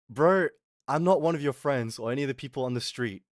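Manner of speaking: confrontational. Retold or imitated. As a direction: act out standing up to a brother. Retold stand-off with the brother.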